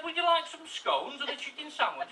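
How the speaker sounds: high, loud, slow offer; eager host. Acted. Householder offering food to doorstep callers, acted eager host.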